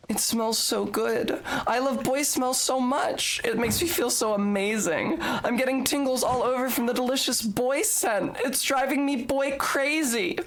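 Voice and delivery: a hint of a swooning girl; lightly gushing. Reading the green text to a cute boy viewer, lightly gushing. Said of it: "If you're a boy and you're reading this".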